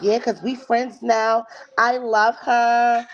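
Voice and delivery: drawn-out mock sweetness on "I love her"; mocking impression. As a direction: mimic her gushing. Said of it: "Be like".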